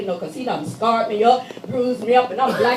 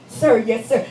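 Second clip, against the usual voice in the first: a firmer, louder "Sir, yes, sir"; louder answer. Retold or imitated. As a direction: answer up so the guard hears. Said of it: "I don't hear you".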